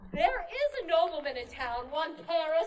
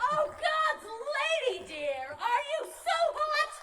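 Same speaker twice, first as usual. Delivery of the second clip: exasperated; 8 semitones higher, slower than usual. Acted. Nurse scolding impatient Juliet.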